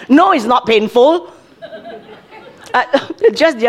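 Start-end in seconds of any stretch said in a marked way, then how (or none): 0.1-1.3 lightly voiced brush-off with a laugh; the wrong way to answer a hurt child, mocked; mock dismissive parent. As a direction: wave the pain away half-laughing. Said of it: "You cannot say".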